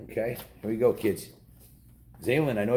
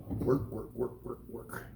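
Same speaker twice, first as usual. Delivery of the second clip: weary sigh and mutter; 7 dB quieter, slower than usual. Acted. Tired husband home from work.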